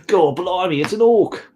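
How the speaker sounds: a playful Londoner exclaiming; mock Londoner accent. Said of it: "A Londoner accent, eh?".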